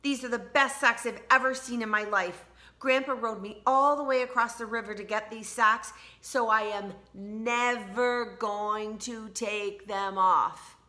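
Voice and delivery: proud and delighted, slowing at the end; Tina excited. Acted. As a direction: Tina telling her family she'll never take them off, proud. Tina's excited speech.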